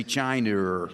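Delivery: northern English "China" drawn out into a final R; northern rhotic accent. Shown as a demonstration. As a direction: say "China" slowly with a northern hard R ending. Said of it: "a genuine northern accent involves the rhotic R".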